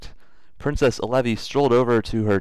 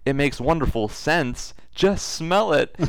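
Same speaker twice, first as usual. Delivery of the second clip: character voice; 7 semitones higher, slower than usual. Acted. Harold voiced in read story.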